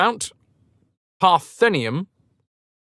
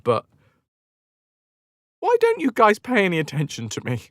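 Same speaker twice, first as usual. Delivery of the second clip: lightly voiced needy god, pitched up; Pan voice; 4 semitones higher than usual. Lonely god Pan asking why nobody cares, mildly whiny. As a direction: call out, then turn plaintive. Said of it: "told him to ask the Athenians".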